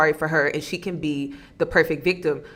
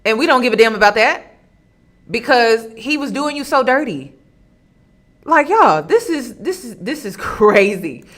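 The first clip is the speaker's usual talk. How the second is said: louder, higher, with a laugh; outraged disbelief; 3 semitones higher, 4 dB louder than usual. Real, not acted. Commentator reacting to the cheating story, loud disbelief. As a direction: exclaim in disbelief.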